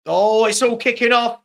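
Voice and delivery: loud, sudden burst of excitement; excited outburst. Real, not acted. Streamer calling a brawl on the pitch, loud excited outburst. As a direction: blurt it out as the fight starts. Brawl breaks out during match.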